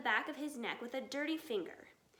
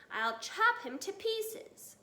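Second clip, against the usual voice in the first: vicious shout; 7 semitones higher, slower than usual. A narrator's reading. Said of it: "shouted Bunce".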